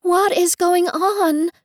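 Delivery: high, drawn-out call over wind; shouting over storm. A narrator's reading. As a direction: raise your pitch to be heard through a gale. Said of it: "shout into his lowered ear over".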